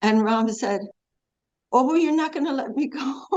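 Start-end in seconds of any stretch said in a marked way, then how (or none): 1.7-3.3 hammed-up tearful whine, higher; mock crying. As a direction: pretend to cry for the child's sake. Father teasing his little son.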